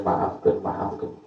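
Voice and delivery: fading to a breathless whisper; whispered plea. Retold or imitated. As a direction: let the plea die away unvoiced. (bisikan memohon maaf)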